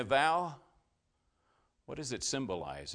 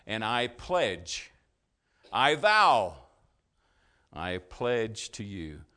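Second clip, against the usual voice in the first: earnest vow; 7 dB louder, slower than usual. Acted. Preacher voicing a personal vow.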